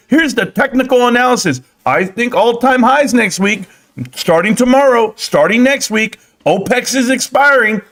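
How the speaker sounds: mock the know-it-all chart reader in a high voice; mocking a hyped trader. Mocking a bullish stock-chat caller.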